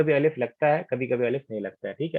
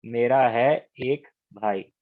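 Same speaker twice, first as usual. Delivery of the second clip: slow, deliberate translation; 3 semitones lower, slower than usual. Shown as a demonstration. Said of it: "मेरे लिए नहीं, मेरा".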